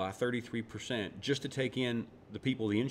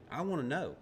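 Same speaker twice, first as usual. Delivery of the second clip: lightly hammed hillbilly accent, pitched higher; a higher hint of hillbilly twang; hillbilly Republican accent; 6 semitones higher than usual. Checking the accent came through good, hillbilly Republican accent. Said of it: "That was my hillbilly Republican accent".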